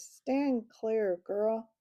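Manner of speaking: mock stern king's order; a touch of royal threat; terrible voice. King warning the girl away from the donkey, mildly stern. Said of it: "in a terrible voice".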